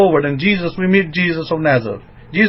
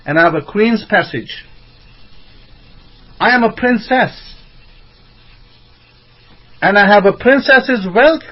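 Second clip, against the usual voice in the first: proud declaration; 4 semitones higher than usual. Shown as a demonstration. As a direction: declare it like royalty to the mirror. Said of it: "what you should be telling yourself".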